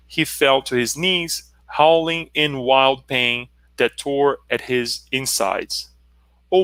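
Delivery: measured reading aloud with pauses; deliberate storytelling delivery; story narration. A narrator's reading. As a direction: read the tale out solemnly, phrase by phrase.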